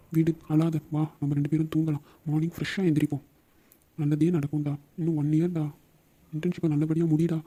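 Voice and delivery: calm a crying friend down; gentle consoling. Acted. (ஆறுதலாக, மென்மையாக)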